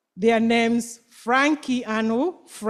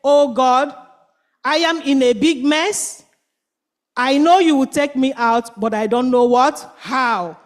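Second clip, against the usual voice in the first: earnest prayer. Acted. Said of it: "Pray to God and said".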